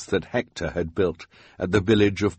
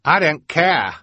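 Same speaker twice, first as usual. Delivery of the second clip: put-on higher careless kid voice; bored scout; 9 semitones higher, 5 dB louder than usual. A narrator's reading. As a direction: shrug it off. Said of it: "said another Snow Scout".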